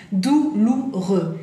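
"Douloureux" in drawn-out syllables; slow French model. Shown as a demonstration. Teacher repeating the painful word, slow syllables. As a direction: say "Douloureux" slowly, piece by piece.

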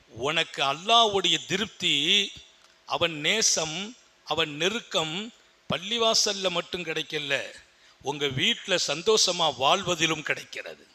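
soft earnest appeal. Acted. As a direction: draw them in quietly. Soft intimate exhortation. (மென்மையான அறிவுரை)

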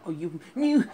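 loud angry yell. Real, not acted. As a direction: shout it out in frustration. Gamer yelling at game.

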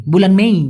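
মেই said as may-ee, two vowels; Malay pronunciation. Shown as a demonstration. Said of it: "উচ্চারণটা হয় মেই". (মেই উচ্চারণ: মে-ই)

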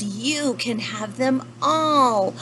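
slow, drawn-out grand giveaway; generous panda. Acted. Mister Panda rewards the polite lemur, slow and generous. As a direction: stretch it out as a grand offer. Panda gives all donuts away.

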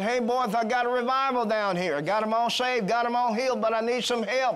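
high, loud eager report of a revival; excited phone call. Acted. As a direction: burst with news down the line. Philip phoning Jerusalem.

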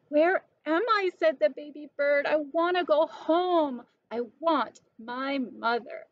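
high little-bird voice, pleading; lost baby bird. Acted. Baby bird lost far from home, lightly voiced plea. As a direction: sound small and homesick.

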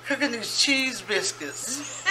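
talking through helpless laughter; high, giggling words between fits; laughing fit. Real, not acted. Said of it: "Is it really that funny".

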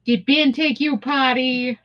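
slow Minnesotan dog talk; slipped-out Minnesota accent. Pretend. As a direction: coo it slowly with a Minnesota lilt. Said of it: "the accent is just slipping out".

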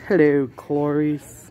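slow, savoring Hello, Clarice; lightly voiced menacing villain; Hannibal Lecter quote. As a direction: purr Hello, Clarice like the cannibal doctor. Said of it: "that movie".

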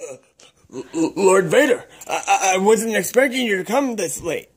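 nervous, stuttering on the first words; flustered stammer. Acted. Minion caught off guard by Lord Vader, flustered stammer. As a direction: trip over your words before the boss.

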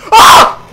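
very high, loud shriek; startled scream. Real, not acted. Player caught by a jump scare, startled scream. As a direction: scream out in sudden fright.

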